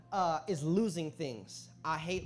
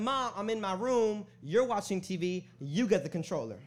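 protesting son; 4 semitones higher, 4 dB louder than usual. Retold or imitated. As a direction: push back at mom, mildly indignant. Son's acted retort to mom.

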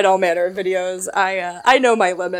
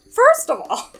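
much higher, sassy and laughing; 5 dB louder, slower than usual. Shown as a demonstration. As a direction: toss it off with attitude. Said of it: "I've gotta do this in some kind of way".

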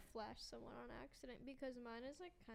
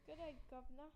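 put-on Australian accent; 3 dB quieter than usual. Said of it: "my best Australian accent".

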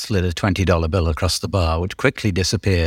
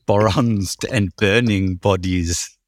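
1 slow savoring repeat; much slower than usual. Shown as a demonstration. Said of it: "I'm already laughing".

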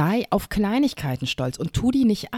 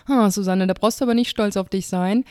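mock put-down; 4 semitones higher than usual. Host imitating an imagined Instagram critic, mildly mocking. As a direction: play the imagined critic, a touch condescending.

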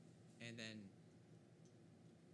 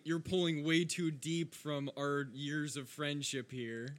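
dramatic plea; 11 dB louder than usual. Acted. Player mock-dramatic plea to friend.

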